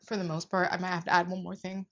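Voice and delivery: talking through hiccups; words broken by little hiccups. Real, not acted. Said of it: "Excuse me, I have hiccups".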